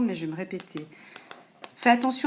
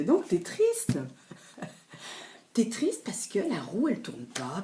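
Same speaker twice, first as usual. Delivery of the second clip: mock pity. Mocking viewer's sadness.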